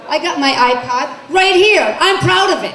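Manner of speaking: proud boast. Pretend. Mother shows her daughter the iPod, shouting proudly. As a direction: brag about the iPod, ending in a shout.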